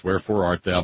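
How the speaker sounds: a lightly voiced theatrical Romeo; Romeo's line. Shown as a demonstration. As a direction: wherefore art thou, Shakespeare-style, mildly hammed. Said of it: "is Romeo".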